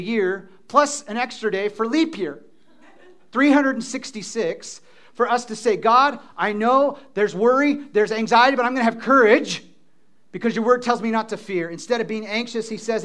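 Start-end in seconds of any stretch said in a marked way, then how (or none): 5.8-11.7 bold prayer. Acted. Voicing a courageous prayer.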